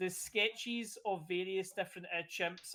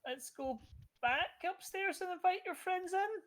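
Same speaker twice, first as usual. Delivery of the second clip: slow, higher confused woman; 11 semitones higher, slower than usual. Acted. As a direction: speak slowly as a puzzled stranger. NPC voiced by GM.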